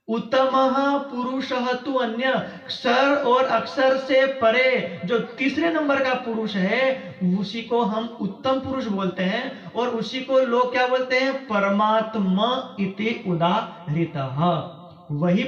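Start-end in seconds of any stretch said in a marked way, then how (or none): 0.1-2.3 slow, measured Sanskrit verse; shloka recitation. Acted. Preacher answers what the shloka says, slow recitation. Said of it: "तो श्लोक में क्या कहा?". 11.5-14.4 slow, drawn-out Sanskrit verse; shloka recitation. Acted. Preacher quotes the shloka to listeners, slow recitation. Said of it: "तो श्लोक में क्या कहा?".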